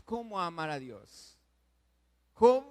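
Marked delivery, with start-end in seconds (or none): 2.3-2.6 calls out "Job" loudly and high; preacher's loud cry; shouted name. Real, not acted. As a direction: ring out the name "Job" across the church.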